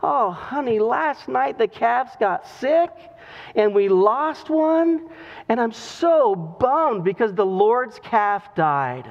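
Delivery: slow, mock-mournful farmer; lightly acted dejection, words dragged out; downcast. Farmer breaks bad news to his wife, mildly downcast. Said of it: "he is just downcast".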